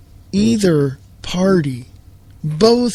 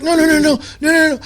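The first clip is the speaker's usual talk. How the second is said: high, hammed-up frantic no's; mock panicked denial; 8 semitones higher, faster than usual. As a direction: play the caught politician squealing no. Mock politicians panicking, refusing exposure.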